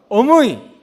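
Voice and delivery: 경상도 말투로 "어머니" 부르기; calling mother, Gyeongsang. Retold or imitated. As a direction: call out to mother in a Gyeongsang lilt. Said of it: "경상도입니다". (경상도 사투리로 엄마를 부르듯)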